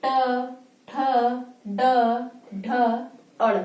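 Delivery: ट ठ ड ढ said with the tongue curled back; teacher modelling retroflex sounds; 1 retroflex letter demo. Shown as a demonstration. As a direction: curl the tongue and recite. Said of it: "बोलिए हमारे साथ आप".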